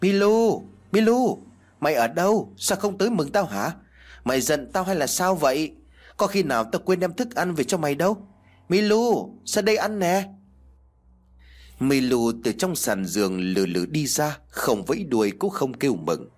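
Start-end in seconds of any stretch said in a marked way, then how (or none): 0.0-10.3 high-pitched calls, loudest on the name; calling out. A narrator's reading. Owner looking for his missing dog Milu, calling out. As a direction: call the dog in a high, raised voice. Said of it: "lên tiếng gọi".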